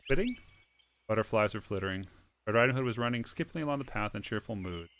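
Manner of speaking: reading a fairy tale aloud over music; steady storybook read-aloud; story narration. Acted. Reads the game's story aloud.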